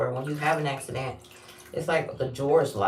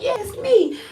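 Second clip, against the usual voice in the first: laughing; 6 dB louder than usual. Retold or imitated. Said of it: "I'm like".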